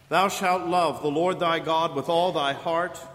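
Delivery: ordinary talk, nothing marked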